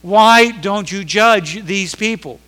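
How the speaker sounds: Habakkuk pleading with God over the wicked nation, loud; prophet crying out. Acted. Drag out the last question. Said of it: "Habakkuk is crying out".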